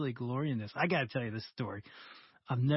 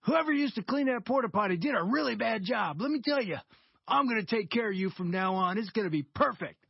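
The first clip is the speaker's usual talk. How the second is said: higher, louder cheerful promise; joyful cleaner; 6 semitones higher, 3 dB louder than usual. Retold or imitated. Porta-john cleaner tells the contractor he'll do it right, beaming and loud. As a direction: gush with delight about doing the job right. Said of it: "and he goes".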